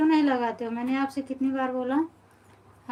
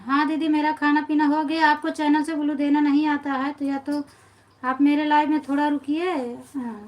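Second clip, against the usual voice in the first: irritated; 4 dB louder than usual. Real, not acted. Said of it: "आप इतना ज़्यादा गुस्सा कर रही हो".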